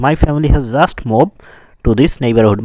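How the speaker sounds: slow example sentence with "just" emphasized; stress on JUST. Shown as a demonstration. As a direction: give "just" extra weight. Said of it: "এক সময়টাকে গুরুত্ব দিয়েছে". ("just" শব্দে জোর)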